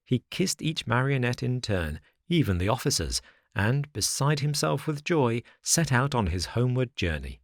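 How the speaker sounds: plain reading voice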